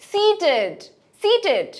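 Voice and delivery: high, falling সিটেড with -id; -id ending. Shown as a demonstration. Teacher models past tense, সিটেড ending -id. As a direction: stretch the first part of "সিটেড", light -id. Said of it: "আইডি উচ্চারণ".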